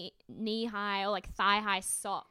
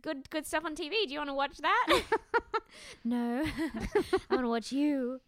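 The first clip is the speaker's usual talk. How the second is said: creepy staring husband; 5 semitones higher, 3 dB louder than usual. Pretend. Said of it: "Staring at her".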